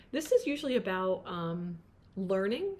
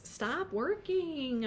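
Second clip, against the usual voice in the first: slow, higher, drawn-out stop; firm command; 6 semitones higher, much slower than usual. Acted. Reader urging the overworked client to rest. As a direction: plead with them to stop. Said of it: "message to client".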